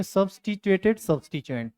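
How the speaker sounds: "सब्स्टिट्यूएटेड सब्स्टिट्यूएंट" spoken whole as a model term; modelled pronunciation. Shown as a demonstration. Teacher shows Hindi-medium students the term, "सब्स्टिट्यूएटेड सब्स्टिट्यूएंट" said clearly. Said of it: "इसको बोलेंगे".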